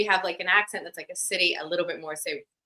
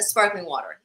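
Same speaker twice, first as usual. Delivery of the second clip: American "sparkling water" with both R's sounded; American accent; 2 semitones lower than usual. Retold or imitated. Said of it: "could do an American accent".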